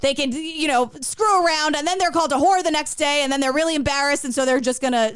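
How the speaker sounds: fast, nasal morning-zoo DJ patter; nasal radio DJ voice. Retold or imitated. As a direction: rattle it off like a cheesy radio host, through the nose. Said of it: "In that stupid, like, radio nasally voice".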